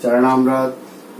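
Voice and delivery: चरणामृत drawn out very slowly; teacher slowly sounding out the word; slow demo. Shown as a demonstration. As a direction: stretch चरणामृत syllable by syllable. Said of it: "नया शब्द आपके पास आ गया".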